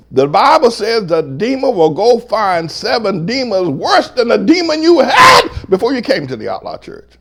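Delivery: high preaching cry building to a shout; full-force preaching. Real, not acted. Pastor warning church what the Bible says, full-force preaching. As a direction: preach it hard, rising to a shout.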